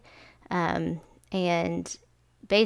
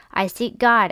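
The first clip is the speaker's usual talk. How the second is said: a louder, raised cry of I seek God; madman's cry; 3 semitones higher, 5 dB louder than usual. Acted. The madman crying out in the marketplace, loud. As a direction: call it out like a desperate madman. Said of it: "cried incessantly".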